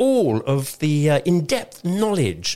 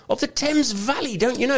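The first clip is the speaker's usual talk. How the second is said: radio announcer voice; 8 semitones higher than usual. Acted. Mock radio jingle voice.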